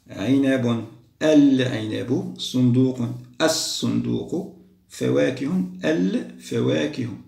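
teacher reviewing the exercise answers; slow word list. Shown as a demonstration. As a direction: read the words out slowly one by one. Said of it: "قمرية، شمسية، قمرية".

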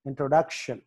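ఇంట్రొడక్షన్ with the stress on "duc"; ఇంట్రొడక్షన్, "duc" stressed, then falling. Shown as a demonstration. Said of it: "డి దగ్గర stress mark".

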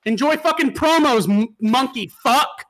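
slow, spiteful sign-off; sarcastic send-off to a teammate; mock taunting message. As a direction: drag out the parting insult. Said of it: "And then you message him".

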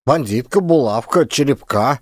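each name rising, as if it were obvious; puzzled that they don't get it; puzzled boy. A narrator's reading. Boy answers the officer's question, puzzled, rising. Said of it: "удивился пацан непониманию властей".

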